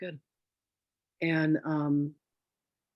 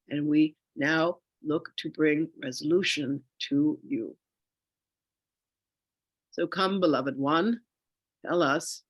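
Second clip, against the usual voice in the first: slow, louder, solemn spirit guide; channeled spirit voice; 4 dB louder, slower than usual. Acted. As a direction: speak as the collective ascended masters. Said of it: "my voice is gonna change".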